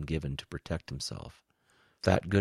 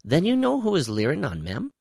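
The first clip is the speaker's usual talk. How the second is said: calming down; 13 semitones higher, 8 dB louder than usual. Acted. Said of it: "calming down".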